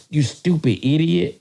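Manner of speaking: put-on slow British-accented insult; drawn-out mock British put-down. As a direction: imitate a British cop, stretching the words. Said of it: "in his British accent".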